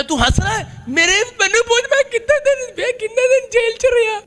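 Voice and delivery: very high imitated wail; mock plaintive protest. Preacher mimicking his jailed friend's protest, high-pitched wailing. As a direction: complain in an exaggerated falsetto squeal.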